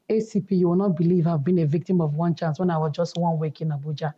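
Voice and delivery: husky voice. Real, not acted. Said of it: "don't mind my husky voice".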